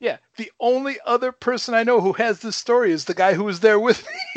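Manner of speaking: high, laughing near-shout. Real, not acted. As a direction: crack up while telling it. Laughing at his own story.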